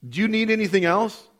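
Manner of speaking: God speaking over the backyard, booming and proud. Retold or imitated. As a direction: boom it out like a proud father in the sky. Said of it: "you hear this voice".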